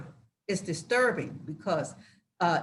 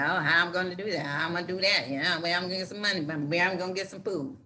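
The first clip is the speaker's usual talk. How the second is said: fretful questions; 4 semitones lower, 4 dB quieter, much faster than usual. Retold or imitated. Voicing worried followers' questions.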